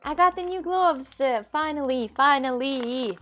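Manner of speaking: high, loud, slowed and gushing; savouring each word with joy; thrilled. Real, not acted. Shows off new gloves.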